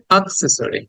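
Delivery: "অ্যাক্সেসরি" begun with a brief "আ"; light "আ" at the front of "অ্যাক্সেসরি"; short schwa start. Shown as a demonstration. Teacher asking class to say it along, short schwa start. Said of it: "না বলে বলছি আ".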